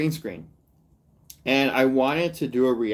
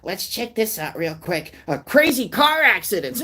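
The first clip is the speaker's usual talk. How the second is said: high, cheery clip host; upbeat host intro to a tragedy; mocking a reaction youtuber hyping an accident; hyped youtuber voice; 9 semitones higher than usual. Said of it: "because it's like".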